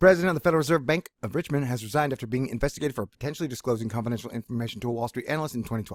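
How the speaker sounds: rapid, rattled-off reading straight through at speed. Reading a news item aloud, reading very fast. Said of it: "I'll read it real fast".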